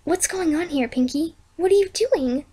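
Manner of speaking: scared. Acted. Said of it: "Twilight looked scared".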